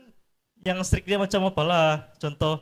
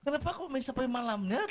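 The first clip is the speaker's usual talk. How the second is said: lightly voiced cross parent; mock parental scolding; 10 semitones higher, 5 dB quieter than usual. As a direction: imitate a parent demanding an explanation. Parent scolding late child, acted.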